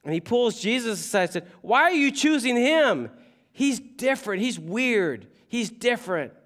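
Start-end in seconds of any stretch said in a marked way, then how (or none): 1.6-6.3 angry Peter. Retold or imitated. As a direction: push back hard, offended. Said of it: "Peter was angry".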